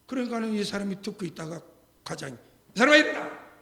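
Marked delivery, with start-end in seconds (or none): 2.4-3.5 louder, higher shouted command; chief's barked order. Retold or imitated. Police chief ordering the rude detective to stand, loud shout. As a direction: bark it like a boss scolding a subordinate.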